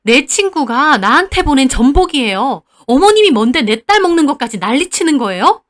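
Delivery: mother confronting mother-in-law angrily. Retold or imitated. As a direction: fight back for her daughter. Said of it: "할머니한테 따지시더라고요".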